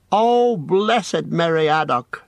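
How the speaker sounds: slow, high, gushing thanks; rapturous thanks. A narrator's reading. Pippin thanks Merry for the bath, slow high gushing joy. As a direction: lay it on thick with joy.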